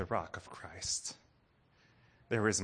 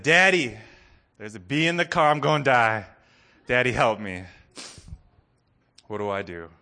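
put-on child's frightened cry for daddy; panicked child; 7 dB louder than usual. Child in car begs daddy, frightened. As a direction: voice a scared little boy begging for help.

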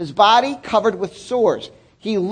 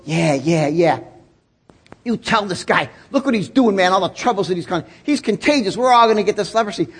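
religious person; 2 semitones lower than usual. Retold or imitated. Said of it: "the religious person in you goes".

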